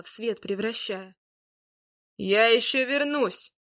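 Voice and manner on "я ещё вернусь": slow, louder ominous vow; sinister cry. Acted. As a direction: threaten to return, drawn out. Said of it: "раздался зловещий крик".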